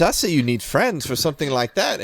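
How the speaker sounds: high, loud, incredulous repeat. Acted. Shopkeeper loudly repeats the embarrassing confession, loud. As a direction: announce it loudly for all to hear. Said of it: "she says that loud".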